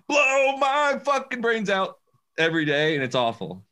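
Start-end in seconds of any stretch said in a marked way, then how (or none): 0.1-2.0 high, slow mock despair; exasperated. Fed up with the song playing all day. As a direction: groan it like you can't take it anymore. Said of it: "And I'm just like".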